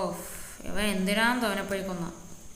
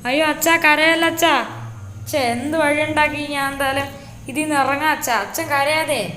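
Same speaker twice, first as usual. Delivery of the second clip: son pleading; 4 semitones higher, 4 dB louder than usual. Acted. Son comforts his crying father.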